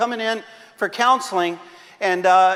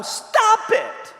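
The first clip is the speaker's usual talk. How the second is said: high, curt "Stop it" from the sketch therapist; deadpan comic command; blunt psychiatrist; 12 semitones higher than usual. Retold or imitated. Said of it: "So I told him".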